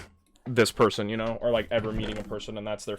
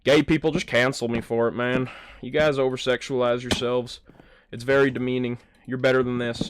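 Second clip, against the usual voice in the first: imitated Fortnite gamer; 3 semitones higher than usual. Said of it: "Same vibe".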